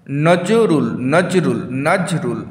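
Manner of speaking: "নজরুল" repeated in two beats, নজ and রুল; teacher sounding out নজ–রুল; syllable beats. Shown as a demonstration. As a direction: lean on নজ, then রুল in "নজরুল". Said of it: "নজ একটা রুল".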